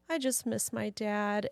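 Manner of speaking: quiet, slow little confession; soft and slow, imitating a kid missing a parent; imitating son near tears. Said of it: "looked like he was gonna cry".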